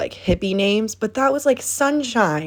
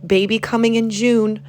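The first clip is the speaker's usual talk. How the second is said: mock excited commenter; 4 semitones higher than usual. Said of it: "being like".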